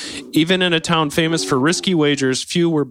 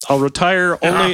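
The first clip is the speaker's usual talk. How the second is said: put-on German accent; 5 semitones higher, 4 dB louder than usual. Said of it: "Roy shot back".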